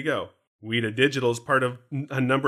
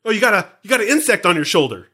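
fast, louder pretend alarm at a bug; mock panic; 4 semitones higher, 4 dB louder, faster than usual. Host teases co-host about a giant bug, mock panic. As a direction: play it up like a bug just landed on her.

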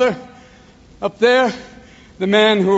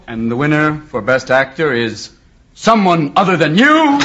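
awards presenter; 5 semitones lower than usual. Acted. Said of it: "they read the name and they go".

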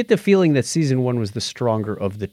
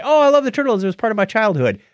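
gushing fan; 9 semitones higher, faster than usual. Retold or imitated. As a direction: parody a starry-eyed Turtles fan. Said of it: "when people say".

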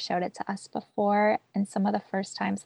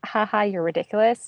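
light mock laugh; 3 semitones higher, 4 dB louder than usual. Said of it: "difference between saying".

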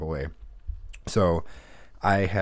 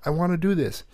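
put-on higher, whiny kid plea; pleading little boy; 9 semitones higher than usual. Little Trent pleading with his brother, higher whiny kid voice. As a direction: beg like a small child set on riding. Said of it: "Trent's like".

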